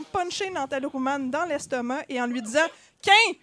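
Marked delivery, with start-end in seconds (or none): 3.0-3.3 short, loud, high burst; punching exclamation. A narrator's reading. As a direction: land the word like a punch. Character punches the villain. (exclamation forte, comme un coup de poing)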